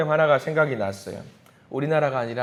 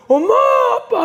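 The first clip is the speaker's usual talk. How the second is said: mock crying child; 9 dB louder than usual. Arrested child crying for mum and dad, mock wailing. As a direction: wail like a frightened child, acted. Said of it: "하면서 막 우는 거예요".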